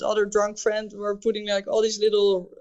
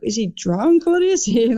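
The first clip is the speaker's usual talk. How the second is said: surprised wondering; 2 semitones higher, 5 dB louder than usual. Retold or imitated. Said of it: "so I was like".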